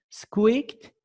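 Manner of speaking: high squeak on Squeaked; squeaky mouse demo. Shown as a demonstration. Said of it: "fare ses çıkardı".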